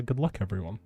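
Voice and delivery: ordinary talk, nothing marked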